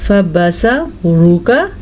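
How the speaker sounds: फबसरुका slowly with a thick ra; heavy ra. Shown as a demonstration. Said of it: "हमने मोटा पढ़ा". (फबसरुका में रॉ मोटी)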